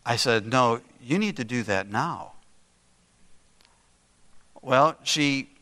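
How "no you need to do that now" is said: grandfatherly, gently firm insistence; calm, quiet firmness. Retold or imitated. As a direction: keep it calm and understated, but firm. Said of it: "still in a calm, quiet tone of voice, but with a firmness".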